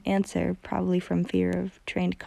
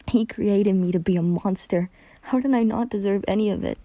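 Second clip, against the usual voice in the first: bitter anger; 3 dB louder than usual. Acted. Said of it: "Hunter spat".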